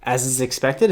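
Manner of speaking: slow, groping repeat of the garbled quote; slow Biden quote. Retold or imitated. Host slowly repeats Biden's garbled answer, unsure. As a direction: read it slowly, unsure of the words. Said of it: "And he says".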